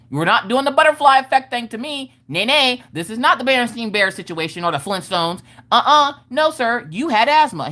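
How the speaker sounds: high, indignant refusal; mock-outraged telling-off; retold yelling. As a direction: act out scolding dad, insistently. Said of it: "And I'm yelling".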